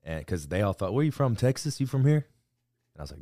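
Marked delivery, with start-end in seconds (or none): 0.9-2.3 curious Texan. Retold or imitated.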